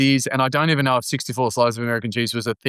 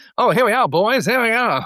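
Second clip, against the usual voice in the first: put-on very high-pitched old vaudeville stage voice; 10 semitones higher, 4 dB louder than usual. Imitating someone on a 1920s stage: old vaudeville performer voice. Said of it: "someone would be on stage going".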